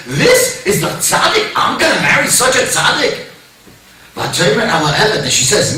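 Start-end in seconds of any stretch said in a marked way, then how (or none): 0.1-3.3 high-pitched incredulous question; astonished disbelief. Acted. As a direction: act out awestruck disbelief at the news. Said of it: "She can't believe it".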